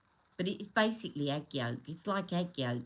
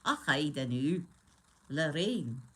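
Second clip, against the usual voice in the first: put-on amateur Scottish accent; put-on, unconvincing Scottish; Lorraine Kelly; 3 semitones lower than usual. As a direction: try a Scottish TV presenter's accent. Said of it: "That sounds nothing like it".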